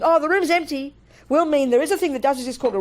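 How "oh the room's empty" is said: light surprise. Retold or imitated. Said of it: "You look in the room".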